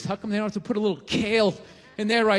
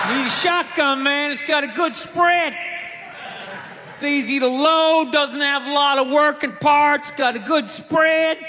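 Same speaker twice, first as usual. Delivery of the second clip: redneck gun clerk; 4 dB louder than usual. Acted. Gun clerk voiced in stand-up.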